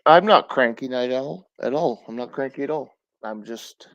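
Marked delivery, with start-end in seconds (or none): 0.1-2.0 a sharp, louder protest; loud denial. Real, not acted. Streamer answering a chatter called Night Owl, a loud insistent denial. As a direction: insist loudly that you're not cranky. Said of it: "This is how I talk".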